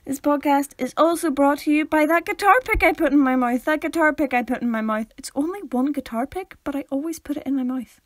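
playful announcer, tumbling along; mock sponsor read. Co-host crediting a guitar pick, mock ad read. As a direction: announce a silly sponsor with gusto.

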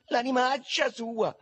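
high, loud, drawn-out cursing; slow high-pitched holler; shouted curse. Acted. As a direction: stretch the insult out in a high yell. Boys shouting about absent friend.

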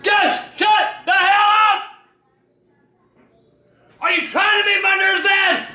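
angry shouting. Real, not acted. Dad yelling at his son to shut up. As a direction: shout him down, nerves frayed.

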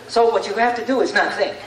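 attempted Sammy Sosa accent. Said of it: "I can't do the accent".

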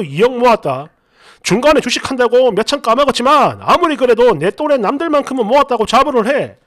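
moderately heated interrogation; acted exasperated scolding; retold anger. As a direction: reenact telling off a partner, pressing each question. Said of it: "그래가지고 제가 화를 냈습니다".

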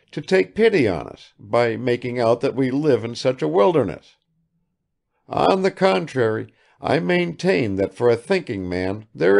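a hint of a proud old man protesting; earnest old father. Father justifying himself to his son, earnest.

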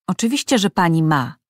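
a mild, contained hiss of annoyance; hissed retort. Acted. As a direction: hiss it out, a touch irritated. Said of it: "syknął Kaleb". (lekko syczący, zirytowany ton)

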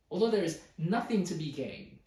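exasperated. Retold or imitated. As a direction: voice the writer's exasperation, hitting the words harder. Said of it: "Can you hear how exasperated he is?".

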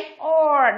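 "Or" as one isolated held vowel; vowel demonstration. Shown as a demonstration. Teacher answers what the words share, modelling "Or". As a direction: sound out "Or" clearly on its own. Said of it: "Đều là gì".

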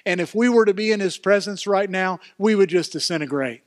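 loud, rising preacher voice; fervent pulpit delivery; full-force preaching. Real, not acted. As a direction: preach it, building in volume.

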